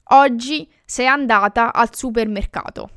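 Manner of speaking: "Oggi sei andata al supermercato" as a statement, settling at the end; affirmative tune. Shown as a demonstration. Teacher giving the normal affirmative sentence, falling statement tune on "supermercato". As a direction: state it, letting "supermercato" fall. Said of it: "normal affirmative sentence is".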